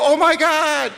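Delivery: very high, loud, slow gushing puppy voice; the thrilled puppy learning to poop outside; overjoyed puppy. Retold or imitated. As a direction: squeal with puppy delight. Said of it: "He'll go".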